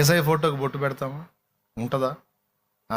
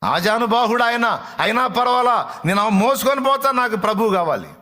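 much higher, louder pleading; desperate insistence; 8 semitones higher, 4 dB louder than usual. Acted. Mary tells the gardener she'll carry him, desperate.

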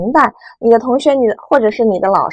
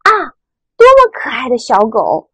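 admiring exclamation; 2 semitones higher than usual. Shown as a demonstration. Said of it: "感叹的语气". (赞叹的语气，慢慢读)

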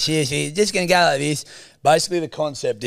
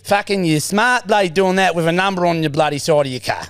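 Stephen's voice; 2 semitones higher than usual. Acted. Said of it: "it's Stephen's voice".

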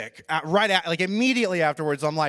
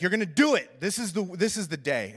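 roommate firmly laying down the law; insist, pressing a friend to commit; imitated no-excuses pep talk; firm push. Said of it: "he finally pinned me down".

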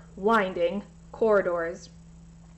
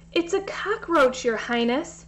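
stammering; 4 semitones higher than usual. Acted. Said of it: "stammered Tara".

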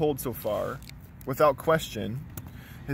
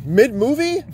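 shocked; 10 semitones higher, 7 dB louder than usual. Pretend. Mock shock at taco request.

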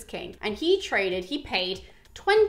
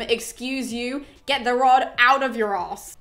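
snooty put-down; 3 dB louder, slower than usual. Retold or imitated. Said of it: "in the way that I just presented it".

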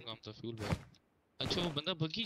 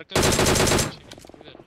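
excited shout; 15 dB louder, much slower than usual. Real, not acted. Shout mid-fight.

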